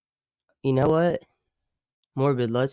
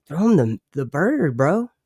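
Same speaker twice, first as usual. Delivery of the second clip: higher, louder mock producer cheering them on; egging-on TV crew; 5 semitones higher, 4 dB louder than usual. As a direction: imitate a crew eagerly egging someone on. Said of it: "And Lifetime's like".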